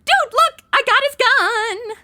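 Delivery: high, loud gleeful shout; triumphant. Acted. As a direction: crow about grabbing the gun. Snatched the gun.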